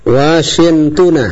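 Washingtona with the final -na clearly sounded, slow; teacher's correction. Shown as a demonstration. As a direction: say Washingtona slowly, stressing the ending -na. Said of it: "Hidupkan nunnya".

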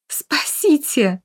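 high, drawn-out shriek for help. A narrator's reading. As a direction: shriek in terror. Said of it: "взвизгнула призрак". (пронзительный визг)

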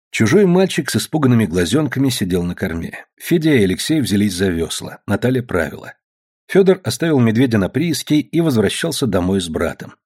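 usual speaking voice

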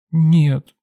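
put-on high child's voice, quick denial; little girl. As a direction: shake it off like a small girl. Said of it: "замотала головой малышка".

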